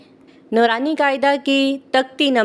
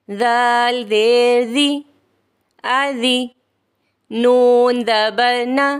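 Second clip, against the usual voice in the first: spelling-drill recitation. Shown as a demonstration. Teacher demonstrating Qaida spelling to learners, measured drill chant. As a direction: chant each letter, then join the syllables. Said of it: "इस तरह से करेंगे".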